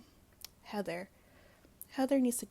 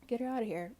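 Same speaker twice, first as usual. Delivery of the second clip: emphatic repeat; 3 semitones higher, 5 dB louder, faster than usual. Real, not acted. Vlogger dismissing Emily, louder second time. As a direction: punch the repeat of Get her outta here harder.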